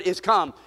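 "is come." leaned on and set apart; stress on is come. Shown as a demonstration. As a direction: hit "is come." as the key words. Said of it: "Underline that word".

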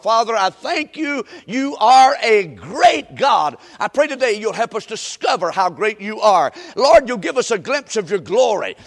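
emphatic pulpit prayer in surging phrases; fervent prayer. Real, not acted. Preacher prays to the Father for his congregation, fervently. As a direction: plead and praise with mounting force.

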